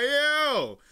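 high, loud, drawn-out amazement; excited reaction. Retold or imitated. Streamer reacting to the rapper's accent, excited exclamation.

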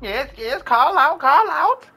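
high, loud, excited urging; urgent calling out. Real, not acted. Streamer urging lost game characters to shout, excited and urgent. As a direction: cheer them on, rising to a loud high cry.

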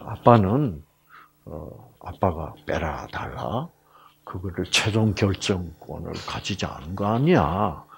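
low, softened acted reassurance; calm, reassuring father. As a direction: lay it out gently for your daughter. Father calmly hands over the decision.

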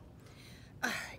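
acted breathy exhale; pig's sigh. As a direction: let out a storybook sigh. Reluctant pig in the story.

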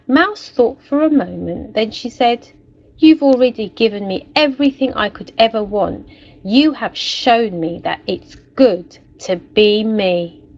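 lively storybook narration for a class; story reading. A narrator's reading. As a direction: read it like a picture book to children. Teacher reads story aloud.

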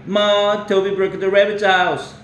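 put-on high, loud child calling down the hall; child's yell. Pete yelling to his mother from the hallway, high and loud. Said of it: "Pete yelled from the hallway".

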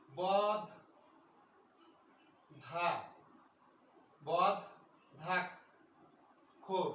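বদ্ধাক্ষর broken into বদ, ধাক, খোর with long pauses; syllable by syllable. Shown as a demonstration. Teacher showing students how বদ্ধাক্ষর is pronounced, syllable by syllable. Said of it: "এটার উচ্চারণটা আছে".

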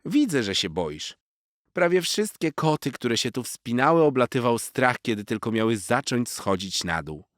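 high, loud wise little squirrel warning; a cheeky squirrel teasing a show-off kitten; squirrel Zosia. A narrator's reading. Squirrel warning the boastful cat, high and loud.

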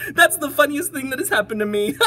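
high, loud, laughing words; laughing elephant. Acted. Elephant finds it hilarious, high laughing voice. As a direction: talk through mounting hilarity. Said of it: "He began to giggle".

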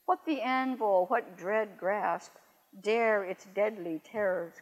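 slow, weighty reading of a poem, each stress hammered; teacher reading Blake's Tiger to the class, slow and solemn; poem recitation. Acted. Teacher recites poem to students, slow measured poem reading.

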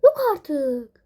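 high, sharp cry of shock. Real, not acted. Woman waking late, shocked cry. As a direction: gasp it out in real alarm.

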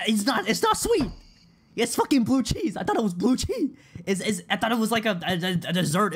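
very high, loud, squealing wail; hammed-up anguish. Streamer reliving expecting sweet dessert, getting blue cheese, mock anguish. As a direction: squeal in mock despair, easing slightly toward the end.

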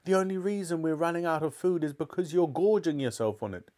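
high, strained outrage at moderate volume; high-pitched tirade; mother's screamed accusation. A narrator's reading. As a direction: berate him as the furious mother. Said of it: "screamed Mother".

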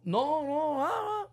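high, fake sobbing wife; mock crying. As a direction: whimper it like a hammed-up wife. Mocking wife's crying. (llanto fingido y agudo)

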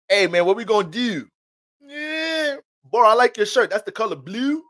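playful Baltimore guy talk; Baltimore accent. Retold or imitated. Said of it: "them Baltimore niggas".

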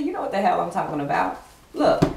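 fast, loud accusing yell; angry shout. Retold or imitated. Furious partner confronting a lying man, loud shout. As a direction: throw it in his face. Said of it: "She said".

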